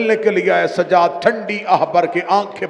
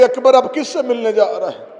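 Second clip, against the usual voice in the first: much softer, near-broken telling; hushed mourning dialogue; 2 semitones lower, 5 dB quieter than usual. Acted. The preacher voices Abbas and Akbar's farewell in a grieving hush.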